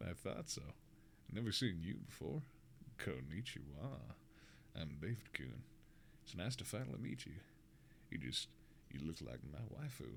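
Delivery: put-on deep southern accent. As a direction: play a hushed southern country boy. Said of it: "in a deep southern accent".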